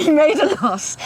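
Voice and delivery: laughing as he says it; a real chuckle through the words. Real, not acted. Laughs confirming the loss.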